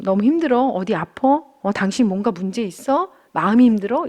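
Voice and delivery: caring check-in. Retold or imitated. Husband asking his worn-out wife how she is, softly caring. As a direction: ask like you truly want to know. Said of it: "이런 식으로 좀 살펴주는 말을".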